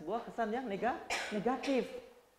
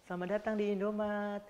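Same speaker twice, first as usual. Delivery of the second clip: mock shop greeting; 4 dB quieter than usual. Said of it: "terima kasih itu pasti baik".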